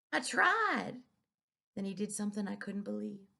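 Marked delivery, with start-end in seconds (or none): 0.1-1.0 breaking. A narrator's reading. Repeated, breaking.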